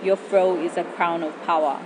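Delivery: poem recitation. Acted. Spoken word poem over music.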